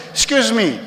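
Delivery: high, loud comic proposal; mock invitation. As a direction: deliver the punchline as a high, loud chat-up. Joke version of the chat-up line.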